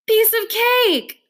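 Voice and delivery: high, slow, straining voice; strained. A narrator's reading. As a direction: force it out with effort. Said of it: "like I'm straining to pass a kidney stone".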